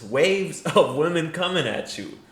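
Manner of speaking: laughing through the phrase; mocking repeat broken by a laugh; laughing echo. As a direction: laugh while quoting it back. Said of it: "I don't even think he believes this".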